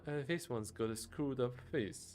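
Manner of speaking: a sneering doorman picking a fight; mocking thug. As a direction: needle him with contempt. Scally mocks the minotaur.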